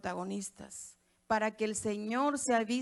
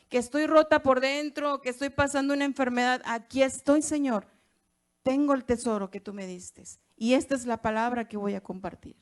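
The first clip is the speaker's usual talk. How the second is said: louder preacher's prayer of surrender; fervent prayer; 6 dB louder than usual. Retold or imitated. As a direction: cry it out as a surrender to the Lord. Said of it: "nos paremos y le digamos".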